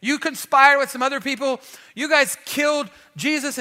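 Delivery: You guys killed Jesus shouted out; a fired-up preacher's shouted charge; preached shout. Retold or imitated. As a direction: hurl the accusation at the crowd. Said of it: "he stands up in front of them and says".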